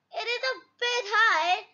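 a touch of unease, voice lifted; nervous. Acted. Daddy Pig at the top of the slide, mildly nervous. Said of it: "says Daddy Pig nervously".

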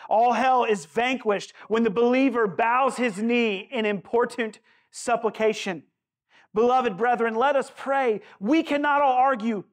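emphatic, rhythmic preaching from a quotation; rallying call to prayer, driven phrase by phrase; impassioned sermon reading. Acted. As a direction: declaim it to the congregation like an old address. Reads Spurgeon's address as preaching.

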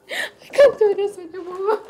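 tearful giving up; crying. Acted. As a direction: sob it out, defeated. Daughter breaks down.

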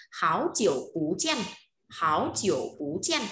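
"háo chiểu bú chen" with rising "háo" and "bú"; changed tones. Shown as a demonstration. Teacher sums up the tone rule, "háo" and "bú" rising. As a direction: raise "háo" and "bú", let "chen" fall. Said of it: "pu lại phải đổi đọc thành pú lên".

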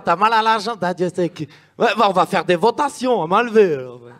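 put-on Moses preaching with a Swiss accent; lilting Swiss French, half-hammed; mock prophet with a Swiss accent. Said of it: "Moïse suisse".

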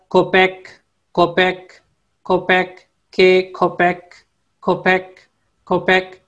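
teacher modelling कोपेक; Turkish word demo. Shown as a demonstration. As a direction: say कोपेक as ko-pek, crisp final k, for learners to repeat. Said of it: "कुत्ते को बोलते हैं".

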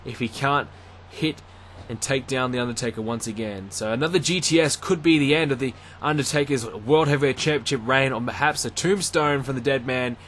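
live ringside play-by-play, rising with the action; wrestling commentator. Acted. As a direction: call the match as it happens.

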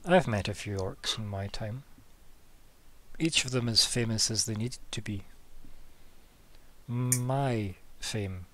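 deliberate delivery with long pauses; lightly voiced character, in no hurry; amused game character. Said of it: "He laughs and he says".

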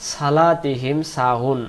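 সালাতিহিম with light সিন sound; common mistake. Shown as a demonstration. Teacher imitating the students' wrong reading. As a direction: read সালাতিহিম with a thin স. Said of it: "আমরা এটাকে বলি".

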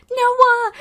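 high, loud call across the yard. Real, not acted. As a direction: call his name to get his attention. Calling neighbour Noah to come.

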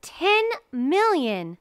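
loud, high, slow shout of an offer. Acted. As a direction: slam down the big offer. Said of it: "shouted the archduke".

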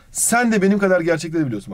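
SEN as the most prominent word, before "de"; stress on Sen. Shown as a demonstration. Teacher shows emphasis before "de", stress on "Sen". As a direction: put the weight on "Sen" at the start. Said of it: "vurgu bunlardan önceki sözcüktedir".

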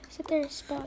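soft unvoiced whisper; whispered instruction. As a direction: whisper to the little pet. Whispering to a toy pet.

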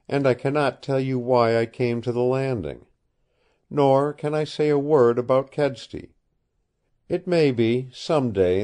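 a hint of an earnest girl pleading; young woman. Woman tells her past.

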